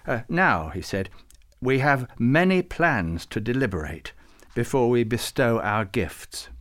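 lightly voiced old saint, measured and formal; a hint of a grave old saint laying out plans; Saint Nicholas. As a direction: speak as a kindly, deliberate elder saint.

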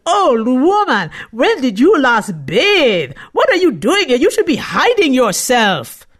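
mock the old woman to her face; rude shout. A rude girl shouting at the old woman, jeering. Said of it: "and shouted".

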